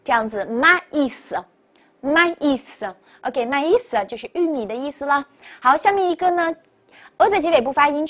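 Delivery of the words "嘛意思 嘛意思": 嘛意思 with 嘛 and 意 as distinct syllables; separated vowels. Shown as a demonstration. Teacher models the French word for corn, vowels kept apart. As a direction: model 嘛意思 carefully, final s sounded. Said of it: "要分开，叫做".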